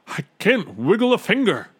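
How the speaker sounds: high, loud wail of distress; high-pitched panicky lament. A narrator's reading. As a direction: wail it helplessly. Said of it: "the trumpeter wailed".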